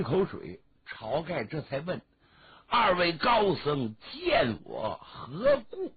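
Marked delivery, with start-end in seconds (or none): 2.7-5.9 slow, measured question to honoured guests; drawn-out, formal storyteller's character voice; formal chieftain. Acted. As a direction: ask with a chieftain's stately deliberation. Chieftain formally questions the two monks.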